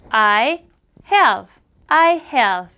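"I" in one syllable, "have" ending on v; correct pronunciation. Shown as a demonstration. Teacher corrects Jay, clean English "I have". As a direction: model "I have" cleanly, no extra vowel. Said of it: "이렇게 말해야 합니다".

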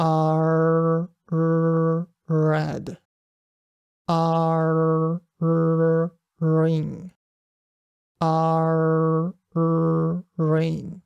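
long "R" held as "ah-rrr", then "red", "ring", "rain" with drawn-out initial R; stressed R drill. Shown as a demonstration. Teacher modelling practice words for learners, stressed retroflex R. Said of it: "Rをストレスしながらや".

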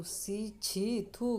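short mock-disgusted exclamations. Wife tastes her husband's liquor, acted disgust. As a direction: spit it out in mild revulsion.

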